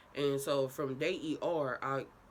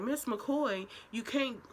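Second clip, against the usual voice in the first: nurse voice; 7 semitones higher, much slower than usual. Retold or imitated. Nurse voiced in retold story.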